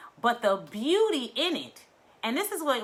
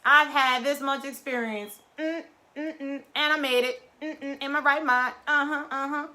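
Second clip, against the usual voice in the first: proud declaration; 4 semitones higher, 3 dB louder than usual. Retold or imitated. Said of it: "I be screaming it from the rooftop".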